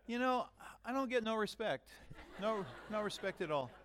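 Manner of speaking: high, hammed-up comic complaint; Dangerfield-style gripe. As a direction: whine like a hard-done-by comic. Joking complaint after tablet teasing.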